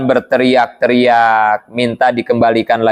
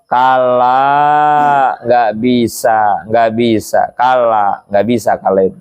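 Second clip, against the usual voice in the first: God refusing; 2 semitones lower, much slower than usual. Acted. God answers the dying man, a lightly voiced firm no. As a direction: deny the plea with calm finality. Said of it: "Apa kata Allah?".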